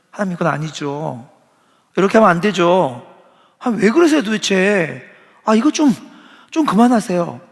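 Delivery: an exasperated plea to God, pushing back; exasperated protest. Retold or imitated. Preacher voicing his own frustration toward God, exasperated and loud. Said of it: "이렇게 하고 싶은 생각이".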